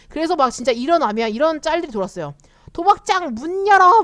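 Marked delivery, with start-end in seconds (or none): 2.7-4.0 slow, high, loud mock yell; a hammed-up cry to open the casino doors; mock shout. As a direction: belt it out like a hyped-up gambler. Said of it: "막 이러면서".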